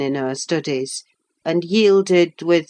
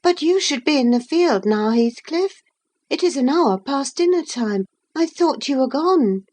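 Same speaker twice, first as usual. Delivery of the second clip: put-on higher girlish voice, mildly scolding; young Catherine, chiding; 9 semitones higher than usual. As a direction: Catherine nudging Heathcliff back to work.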